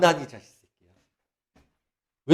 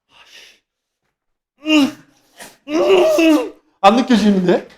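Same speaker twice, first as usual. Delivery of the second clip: drawn-out higher grumble; annoyed doubter; 7 semitones higher, 4 dB louder, much slower than usual. Retold or imitated. The sceptic grumbles he feels nothing, high and drawn out. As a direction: complain you feel nothing. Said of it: "이러면".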